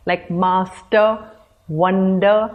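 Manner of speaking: "master", "wonder" stressed on the first syllable. Shown as a demonstration. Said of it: "the first part of these words is stressed".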